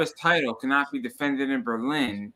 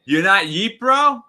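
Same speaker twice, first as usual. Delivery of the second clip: high, loud catchphrase call; loud wrestler catchphrase yell; Jey Uso catchphrase; 7 semitones higher, 9 dB louder than usual. Retold or imitated. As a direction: shout it like the wrestler's crowd line. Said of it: "the Jey Uso thing he says".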